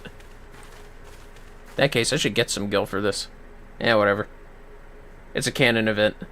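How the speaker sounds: ordinary delivery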